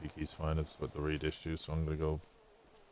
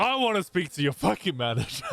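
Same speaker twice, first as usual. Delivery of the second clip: entitled customer; 11 semitones higher, 3 dB louder than usual. Retold or imitated. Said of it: "She went".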